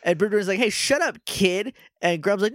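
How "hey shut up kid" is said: much higher, hammed-up villain telling off a kid; mock villain snap. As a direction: squeak it out like a cartoon villain. Broodwing voiced, villain snapping.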